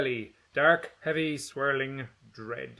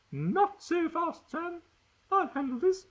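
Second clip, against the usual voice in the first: put-on haughty girl. Gretchen taking over.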